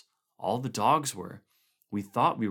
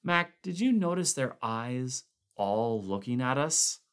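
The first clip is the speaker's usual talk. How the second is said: sickly uneasy fear; 3 semitones higher than usual. Acted. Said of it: "in a sickly grin".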